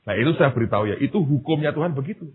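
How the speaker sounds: ordinary talk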